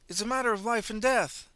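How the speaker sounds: high, loud frantic pleading; desperate plea. Acted. Fleeing man insists to driver, frantic. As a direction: beg as if your life depends on it.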